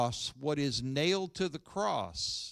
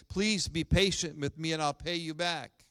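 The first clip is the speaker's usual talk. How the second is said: louder, pleading servant's plea; a servant begging his master for mercy, louder; 3 semitones higher, 4 dB louder than usual. Acted. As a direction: beg for time, pressing the words out. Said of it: "began begging him".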